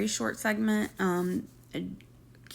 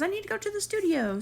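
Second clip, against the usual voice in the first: mocking boyfriend voice; 11 semitones higher than usual.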